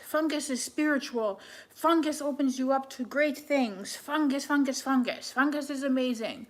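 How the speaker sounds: lightly voiced zealous past self; gushing mock believer. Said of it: "That's what I would have said to me".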